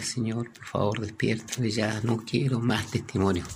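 softened, imploring voice; retold tearful plea. Preacher retells weeping Daniel begging to wake, subdued plea. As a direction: beg softly, only a touch tearful. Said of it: "Daniel lloraba y lloraba y decía".

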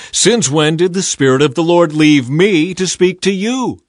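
a false prophet confronting Micaiah after the slap; demanding. A narrator's reading. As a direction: challenge him with outrage. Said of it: "he demanded".

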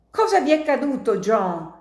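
fast, high, loud horrified cry; terrified cry. Acted. Martino crying out in terror at the wounded John. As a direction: blurt it out in horror. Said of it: "gridò Martino atterrito".

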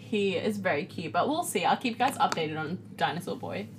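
talking with food in mouth; words round a bite of food; chewing while talking. Real, not acted. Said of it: "Sorry, I'm chewing again".

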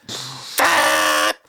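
breathy unvoiced horn blast; voiceless mock horn; obnoxious bike horn. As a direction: spit out a nasty horn noise. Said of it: "It goes".

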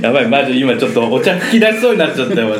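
words bubbling with held-back laughter; talking through a suppressed laugh; trying not to laugh. Real, not acted.

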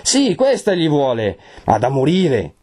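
high, accusing outburst; fierce cry. A narrator's reading. Renzo points at his betrothed, crying out fiercely. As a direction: cry it out like a verdict. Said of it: "e gridò".

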